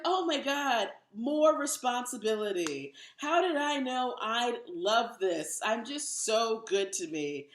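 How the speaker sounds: slow, hammed-up delight at her own gift; fake surprise. Comic acting surprised at a gift she bought herself. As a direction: gush over a present she bought herself. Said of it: "You're like".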